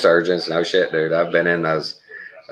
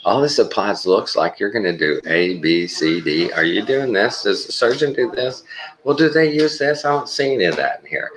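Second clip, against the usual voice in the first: screwing with them; 4 semitones higher than usual. Retold or imitated. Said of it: "I'd just start talking".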